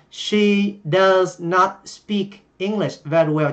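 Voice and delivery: "does not" said in full, slowly; slow model sentence. Shown as a demonstration. Teacher rereading the earlier example sentence slowly. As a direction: read the English sentence slowly and carefully. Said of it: "chúng ta nói là".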